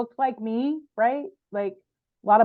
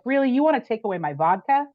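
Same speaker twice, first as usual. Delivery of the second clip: retold rant, building to a sharp screw you; half-acted outburst, hottest at the end; mad at God; 2 semitones higher than usual. Woman venting at God while driving, mock angry rant. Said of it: "but I was mad at God".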